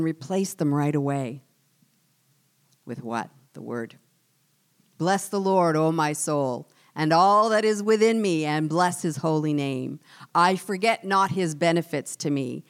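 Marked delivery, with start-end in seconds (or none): 5.0-12.6 fervent psalm recitation. Acted. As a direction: proclaim the psalm, rising louder. Recites psalm as her own prayer.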